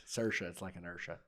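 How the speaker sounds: "Saoirse" and "Ursha" rhymed on a hard R; Irish hard R. Shown as a demonstration. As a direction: say "Saoirse" as SUR-sha, matching "Ursha". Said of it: "that's how you rhyme it".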